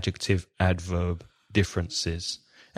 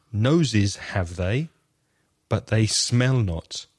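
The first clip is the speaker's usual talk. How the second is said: slow, measured recitation with long pauses; solemn psalm reading; slower than usual. Acted. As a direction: read it like scripture, slowly and gravely. Reads psalm lines aloud.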